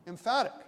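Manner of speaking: EMPHATIC punched high and loud; loud, forceful stress on EMPHATIC. Shown as a demonstration. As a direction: hit the word with full emphasis. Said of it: "was my emphasis".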